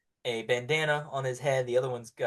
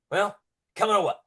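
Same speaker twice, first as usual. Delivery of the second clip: gruff pirate; 6 semitones higher, 5 dB louder than usual. Acted. Pirate urging prisoner along.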